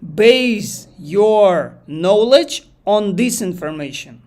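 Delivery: telling the AI how to work, slow and firm; firm instruction. Retold or imitated. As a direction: spell out the rule slowly and firmly. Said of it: "and I told him".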